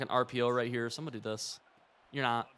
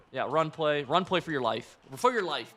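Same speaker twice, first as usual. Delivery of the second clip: hyped yelling; 7 dB louder than usual. Real, not acted. Gamer cheering on a run.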